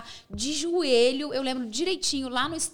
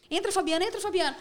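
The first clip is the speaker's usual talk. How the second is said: higher-pitched, hurried urging; retold urgent prompting; 5 semitones higher, faster than usual. Reporter urging her cameraman into the car, urgent. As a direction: hustle a crew mate into the car.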